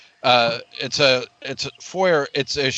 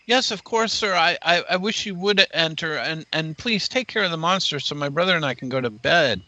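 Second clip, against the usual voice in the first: a hint of a higher-pitched child's plea; lightly played child asking for help; lightly voiced Rose; 4 semitones higher than usual. Child pleading with visitors to deal with the monster, lightly voiced. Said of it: "Rose says".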